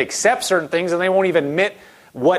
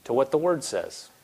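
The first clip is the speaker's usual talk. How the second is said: soft, lower, coaxing voice; gently; 3 semitones lower, 5 dB quieter than usual. Shown as a demonstration. Pastor describing God coaxing, soft and gentle. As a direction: ease the listener back gently.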